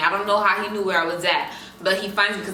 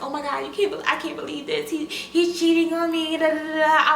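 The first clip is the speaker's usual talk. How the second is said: upset rant; 6 semitones higher than usual. Retold or imitated. Upset texting assistant.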